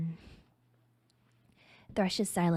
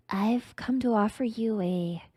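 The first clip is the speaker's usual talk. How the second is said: stuttering. Acted. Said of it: "you stutter".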